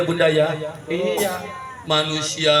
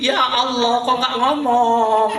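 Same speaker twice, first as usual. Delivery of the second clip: concerned surprise; 8 semitones higher, 3 dB louder, slower than usual. Acted.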